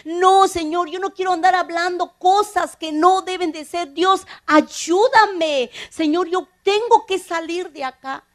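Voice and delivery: imploring prayer, drawing out the final ayúdame; retold tearful prayer. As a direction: plead with God for help, mildly anguished. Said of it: "Yo lloraba y lloraba y".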